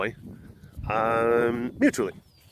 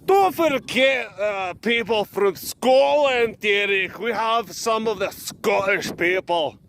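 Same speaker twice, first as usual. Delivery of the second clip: put-on much higher, slow British accent voice; mock British reply; 5 semitones higher, 4 dB louder, slower than usual. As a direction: scold Derek in a prim British accent. English voice replies to Derek.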